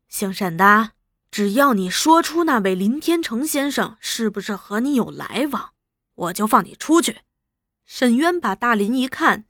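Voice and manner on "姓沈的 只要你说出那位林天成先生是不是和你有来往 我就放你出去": understated gentle offer in an even voice; mild coaxing. Acted. Interrogator offers prisoner his freedom, mildly coaxing. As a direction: coax the prisoner without shouting. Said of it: "朱大同温和对他说".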